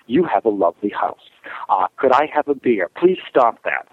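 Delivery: statement, question and command all ending downward; falling cadence. Shown as a demonstration. Man making statement, question, command, voice going down at the end. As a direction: let "house", "beer" and "that" drop at the end. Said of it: "their cadence in their voice goes down at the end".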